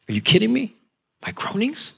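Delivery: high, rising disbelief; incredulous. Acted. Believer learning God hears groanings, astonished.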